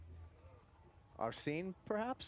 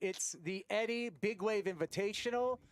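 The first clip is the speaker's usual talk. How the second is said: higher, building broadcast opener; excited announcer; 5 semitones higher than usual. Acted. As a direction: open the show with excitement. Commentator opens the broadcast.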